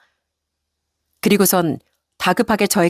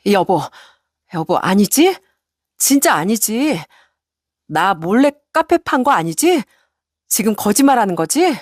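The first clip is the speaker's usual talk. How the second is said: pleading wife; 2 semitones higher than usual. Acted. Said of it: "애걸복걸하면서 얘기를".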